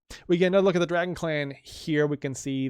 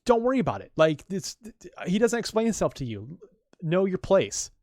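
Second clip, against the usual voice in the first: dismissive son; 5 semitones higher than usual. Retold or imitated. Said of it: "who's just like".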